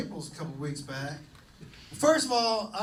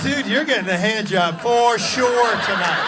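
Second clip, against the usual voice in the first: mock gushing praise; 10 dB louder than usual. Gushing at bouncer, loud.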